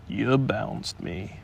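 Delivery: gloomy donkey accusing the tiger, gruffly. Acted. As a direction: grumble it as a sulky accusation. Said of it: "said Eeyore gruffly".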